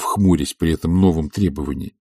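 ordinary delivery

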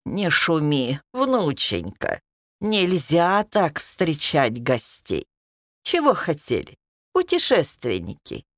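put-on slow soothing old grandma; calming grandma voice. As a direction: gently hush the granddaughter. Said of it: "спросила бабушка, утихомиривая внучку".

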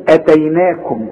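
اتيناكم with a short opening a, no madd; short hamza. Shown as a demonstration. Teacher showing hamza above alif, short first vowel in اتيناكم. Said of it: "الهمزه دي لو فوق الالف تقول ايه".

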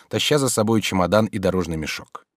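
ordinary delivery

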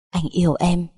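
understated, sweet declaration of love; a lover's unforced "Anh yêu em"; tender confession. A narrator's reading. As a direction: say "Anh yêu em" gently, at an easy level. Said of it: "ngọt ngào da diết".

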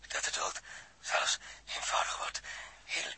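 faint unvoiced whisper; barely breathing out the words. Running out of air, telling Dirk, a faint whisper. Suffocating man on death.

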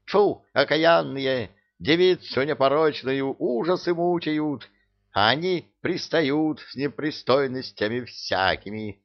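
put-on an old witch spitting with outrage at the pests; возмущённая брань; indignant scolding. A narrator's reading. Witch scolds the cat and house spirit.

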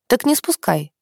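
a hint of flirty challenge; challenging. A narrator's reading. Heroine dares Klim to keep watching her, lightly challenging. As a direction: dare him, lightly. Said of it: "с вызовом в голосе ответила".

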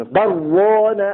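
برون chanted as "bar-raana" with no pause; read straight through. Shown as a demonstration. Teacher shows not pausing, برون chanted straight through as "bar-raana". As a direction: run ba into the doubled r of برون without stopping. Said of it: "سیدھے ملا کر پڑھنا اسے".

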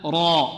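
ra with a full, heavy R. Shown as a demonstration. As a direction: say را with a thick emphatic R and open vowel. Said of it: "الراء المفتوحة مفخمة".

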